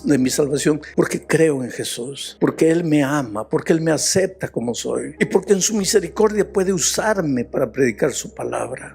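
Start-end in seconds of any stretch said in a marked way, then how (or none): 0.0-7.4 high, ringing sermon voice; full-force preacher building his point; preaching at full force. Acted. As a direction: lift the congregation with conviction. Preaching climax on health secret.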